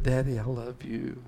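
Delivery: put-on a soft, tender child's words. Boy telling his father he loves him, tender and soft. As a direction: say it gently to your father. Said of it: "And I said".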